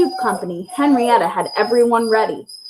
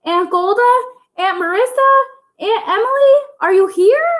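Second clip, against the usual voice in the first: high, louder calling out; 11 semitones higher, 3 dB louder than usual. Acted. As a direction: call into the truck. Calling out for aunts.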